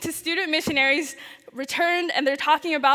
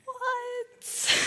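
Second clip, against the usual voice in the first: shocked disbelief; 9 semitones higher, 6 dB quieter than usual. Retold or imitated. Stunned at sudden acceptance news.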